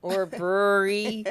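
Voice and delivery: brewery said with weak blurred r's; says w for r. Shown as a demonstration. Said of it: "I cannot say my R's very well".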